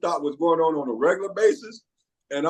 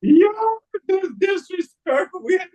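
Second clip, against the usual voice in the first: loud disbelief; 13 semitones higher, 4 dB louder than usual. Real, not acted. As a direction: call out the disrespect. Outburst at disrespect.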